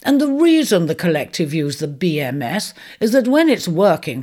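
a hearty centaur setting the record straight; patient centaur. Acted.

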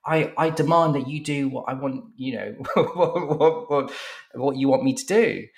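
high, stammering mock demand; retold shouting. Client making demands in a shouting match, high spluttering mock shout. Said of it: "they start shouting at each other".

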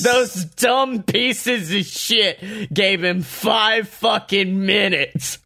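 slow, drawn-out angry rant; exasperated rant. Real, not acted. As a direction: spit out each word in disbelief. Ranting about five minute segment.

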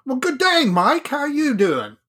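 a quick, hammed-up Australian greeting, pitched high; Australian accent. Dave greets Mike with Foster's in a bad Australian accent. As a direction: toss off a deliberately bad Australian accent as a joke. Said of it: "I won't do an Australian accent".

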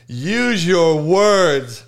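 very slow, drawn-out mock coaxing; mocked gentle parent. Quoting a parent's line he just heard, slow mockery. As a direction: stretch each word, mocking a patient parent. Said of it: "little Johnny as the parent of now".

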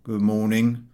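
a surly half-heard mumble; gruff shopkeeper grunt; grunted greeting. A narrator's reading. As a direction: grunt it without looking up. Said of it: "He grunted something".

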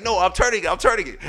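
mildly frantic denial; defensive protest. Retold or imitated. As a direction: imitate a cousin insisting back. Donovan protests in acted quarrel.

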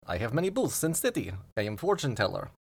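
lightly voiced fortune-telling booth; a hint of a foreign fortune teller, articles dropped; fortune-teller machine. Booth answering the visitor's question, lightly voiced fortune-teller machine.

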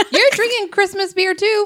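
high laughing tease. Real, not acted. Teasing with laughter.

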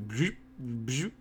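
quick rising "bzoop" sound effect; imitated glitch noise. Remote slipping from the hand, mimicked glitch sound. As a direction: make a little zippy game-glitch noise.

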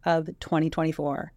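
sultry voice. Acted. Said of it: "You sounded very sultry".

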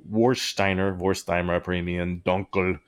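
put-on German accent on the beer name; playful German-accented pronunciation. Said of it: "hard to not say that with a German accent".

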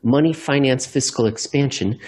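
quick run-through of the phrase; brisk, unbroken delivery; said fast. Shown as a demonstration. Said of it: "if you say it really fast".

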